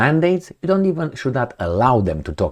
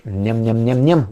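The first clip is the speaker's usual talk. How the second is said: munching sounds. Shown as a demonstration. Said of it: "with some wine".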